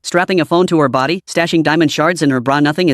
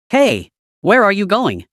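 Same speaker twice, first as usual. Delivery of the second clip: calling out sharply; 3 semitones higher, slower than usual. A narrator's reading. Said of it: "called out sharply".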